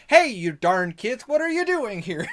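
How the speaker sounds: hammed-up scolding, jumping high at the question; phoned-in voice acting. One guy scolding kids in an anime, phoned-in. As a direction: stretch it like an amateur dub actor. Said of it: "somebody just phoned it in".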